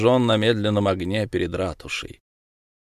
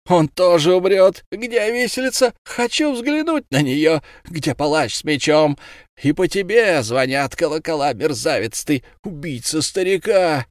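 gloating shout; 7 semitones higher than usual. A narrator's reading. Fishmonger gloating at Ulenspiegel, high jeering shout. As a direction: jeer him toward the gallows. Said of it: "закричал Рыбник".

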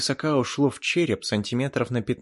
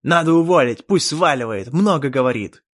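loud, higher indignant yell; sulky angry shout; 4 semitones higher, 9 dB louder than usual. Acted. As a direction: demand it angrily. Elf demands Chan be fired.

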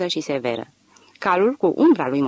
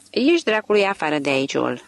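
răcnet. Acted. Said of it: "răgni Eck".

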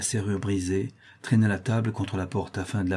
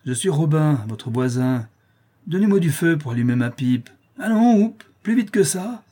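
loud, higher, rising to a shout; rowdy neighbour calling through a door; brash demand; 6 semitones higher, 5 dB louder than usual. A narrator's reading. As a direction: order them about, pushier with each phrase. Drunk neighbour demanding a light.

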